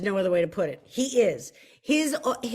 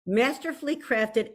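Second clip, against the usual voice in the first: measured, classy blurb reading; a careful, composed classy read; trying to sound classy. Shown as a demonstration. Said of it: "try to sound classy".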